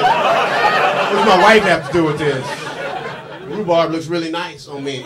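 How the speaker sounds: mock offended, half laughing; laughing mock indignation. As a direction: huff it out while cracking up. Mock defensive reply.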